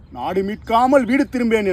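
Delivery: fierce vow. Acted. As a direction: swear it proudly to the sky. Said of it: "சூளுரைத்தான்". (வீர சபதம், உரத்த குரலில்)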